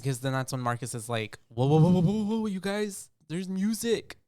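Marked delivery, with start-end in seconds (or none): 1.5-4.2 excited interruption. Retold or imitated. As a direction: halt everyone with a high, loud string of whoas. Acting out Marcus hearing the music.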